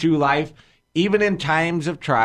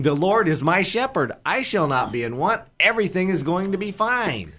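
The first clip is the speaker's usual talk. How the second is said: joyful declaration; 5 semitones higher than usual. Retold or imitated. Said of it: "spring out of bed knowing".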